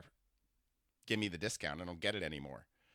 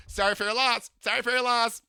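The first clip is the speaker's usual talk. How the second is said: high, loud, sing-song camp voice; imitating a flamboyant older man; 14 semitones higher, 9 dB louder than usual. To a stranger on the subway, gushing camp impression. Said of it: "I imitate people".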